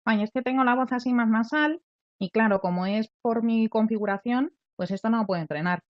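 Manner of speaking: half-mocking a resigned student's lament; whiny self-pity. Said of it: "me tuviera que conformar con decir". (queja resignada ligeramente imitada)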